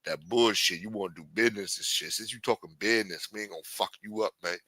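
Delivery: lightly voiced street hustler laying down the rules; a hint of a Harlem gangster threatening the newcomer; tough Harlem street talk. Podcaster playing a Harlem hustler warning a white newcomer, mild tough-guy voice. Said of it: "hearing me talk this way like".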